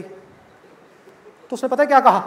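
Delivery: slow drawn-out tease, a hint of drama; suspenseful daughter. Daughter telling her father about the night, slow and teasing. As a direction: stretch it out to build suspense.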